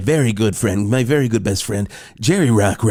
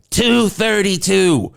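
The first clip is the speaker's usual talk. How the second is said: mock Jerry sob; 7 semitones higher, much slower than usual. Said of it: "And then he said".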